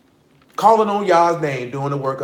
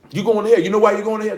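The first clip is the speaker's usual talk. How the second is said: louder warning; 5 semitones higher, 3 dB louder, faster than usual. Shown as a demonstration.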